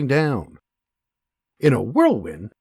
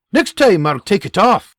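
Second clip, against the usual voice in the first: cool warning; 6 semitones higher, 6 dB louder than usual. Acted.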